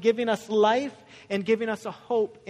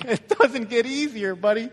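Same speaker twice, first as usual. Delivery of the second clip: mock tough-love dad; 2 semitones higher, 6 dB louder than usual. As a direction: deliver blunt fatherly news for laughs. Joking punchline to sick son.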